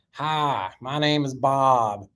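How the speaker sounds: lightly voiced old Florida guy's accent; slow, drawn-out introduction in old Florida accent; imitated deep Florida accent. Old Bob introducing himself onstage, hint of deep Florida accent. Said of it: "he had this deep accent".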